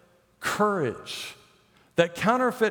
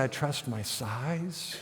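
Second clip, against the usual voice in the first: mock quiet boast; 4 semitones lower, 8 dB quieter, slower than usual. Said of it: "he doesn't say".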